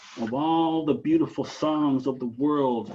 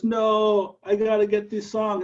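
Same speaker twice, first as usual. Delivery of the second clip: strained desperate raven; 8 semitones higher than usual. Acted. Raven's wing cramps.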